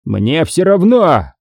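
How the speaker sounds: high, drawn-out angry outburst; mild yell, stretched out. A narrator's reading. Boss overrides Billy's protest, yelling angrily. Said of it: "заорал Харрисон".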